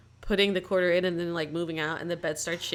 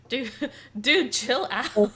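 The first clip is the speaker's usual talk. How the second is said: laughing mock plea; 5 semitones higher, 3 dB louder, slower than usual. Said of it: "It's like".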